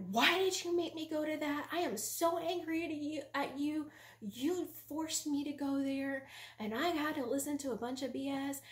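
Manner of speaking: re-enacted indignant complaint; enraged tirade. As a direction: bombard him with accusations. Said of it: "I was enraged".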